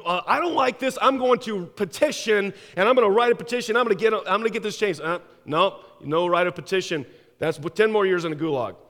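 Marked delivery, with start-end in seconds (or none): 0.0-5.0 defiant protest. Acted. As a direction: push back at the police with raised voice. Citizen defies secret police again.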